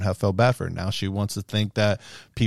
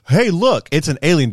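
louder, higher mock discovery; mock excited pointing; 3 semitones higher, 4 dB louder than usual. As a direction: point it out like a gawking tourist. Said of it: "if we sat there and said".

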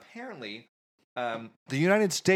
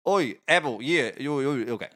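put-on trying out a Cockney accent. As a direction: warm up into rough Cockney. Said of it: "Cockney, Cockney".

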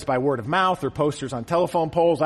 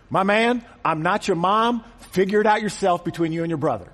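a hint of a laid-back guy waving off a request; regular guy Jesus; 3 semitones higher than usual. Jesus as a regular guy to the heckler, casually dismissive. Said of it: "he might have said".

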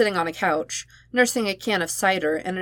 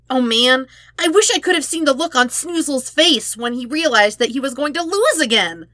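cackling Toph; 6 semitones higher, 5 dB louder than usual. Acted. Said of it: "Toph cackled".

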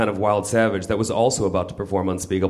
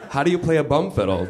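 eager Pooh; 5 semitones higher than usual. Acted. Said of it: "Pooh inquired eagerly".

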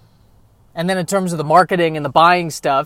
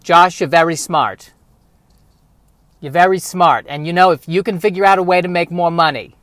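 mock Jewish accent; 4 dB louder than usual. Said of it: "she doesn't have a Jewish accent, but... better if she does".

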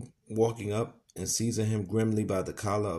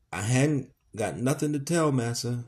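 firm and deliberate; 4 semitones higher than usual. Acted. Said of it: "with a slow, firm, deliberate utterance".

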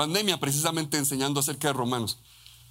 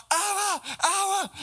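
put-on much higher, ringing child's call; little girl calling; slower than usual. Little girl in the hotel lobby calling her father, high child's call. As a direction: call out like a tiny girl spotting her dad.

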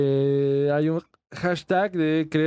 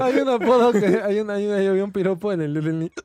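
hiccuping while talking; with hiccups; faster than usual. Real, not acted. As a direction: talk through hiccups. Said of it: "mi hipo".

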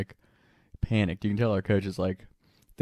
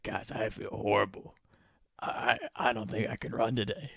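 sick complaint; 7 dB quieter than usual. Retold or imitated. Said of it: "Beef's like".

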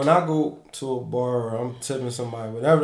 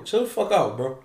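higher and louder, fed up; exasperated; 8 semitones higher, 5 dB louder than usual. Real, not acted. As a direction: tell them to chill, loudly. Scolding pushy bar guys.

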